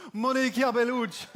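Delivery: savoured, lilting Italian accent; hammed-up sexy Italian accent. Shown as a demonstration. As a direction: roll out MONICA BELLUCCI like an Italian. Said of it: "l'accent italien, ça, ça fait rêver".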